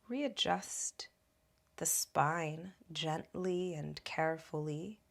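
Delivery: calm, measured guiding voice with long pauses; guided meditation. Acted. Teacher guiding listeners to root into their feet, guided meditation. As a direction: guide them gently inward, unhurried, leaving room between phrases.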